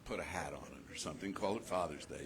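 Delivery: breezy, dismissive mock remark; glib. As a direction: toss it off glibly. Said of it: "started to be real glib and say".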